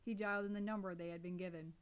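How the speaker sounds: ordinary delivery, nothing marked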